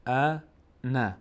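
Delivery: انا very slow with the آ stretched; recited انا; drawn vowel. Shown as a demonstration. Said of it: "اینجا الان فتحه داریم".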